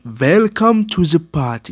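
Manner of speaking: imposing villain's greeting, drawn out; slow, imitated villain's welcome; Richtofen. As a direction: mimic an imposing doctor making his entrance. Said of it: "his imposing presence".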